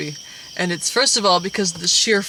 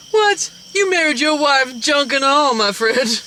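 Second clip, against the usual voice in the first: much higher, loud mock outrage; mock shocked friend; 6 semitones higher, 4 dB louder, slower than usual. The doofy friend scolds the husband in high mock outrage.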